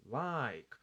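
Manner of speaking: "like" held as one syllable; one mouth movement. Shown as a demonstration. Teacher repeating the mouth demo, "like" as one movement. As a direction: say "like" in one stretched open-and-close glide. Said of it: "abri e fechei".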